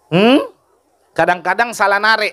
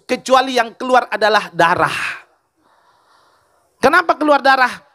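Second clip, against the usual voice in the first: emotive preacher, pitch often raised; impassioned sermon storytelling; 6 semitones higher than usual. Acted. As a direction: voice the weeping family's story from the pulpit.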